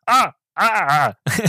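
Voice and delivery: imitated cries of pain. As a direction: act out being speared, half-joking. Imitates speared man's cries.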